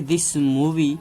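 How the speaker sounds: very slow, word by word example sentence; slow dictation. Shown as a demonstration. Teacher dictating an example to students, very slow. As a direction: spell it out slowly for the class. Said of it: "अब अगर हम इसका सबसे comparison करें".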